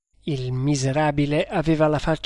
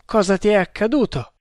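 higher, quick anxious question; anguished; 6 semitones higher, 3 dB louder, faster than usual. A narrator's reading. Tremal Naik questioning the wounded man, anguished. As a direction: ask fast, voice raised in distress. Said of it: "con angoscia".

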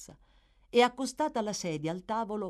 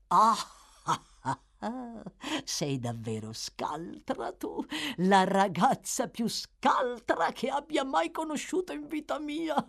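put-on crafty old Fagin, delighted; 7 semitones higher than usual. Fagin praises Nancy's cunning, delighted old schemer. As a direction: gloat admiringly, drawing out the praise.

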